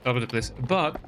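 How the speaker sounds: hammed-up Texan accent. Scrapyard owner sending agent to the motel, Texan accent. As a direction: play it as a Texan local. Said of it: "my best Texan accent".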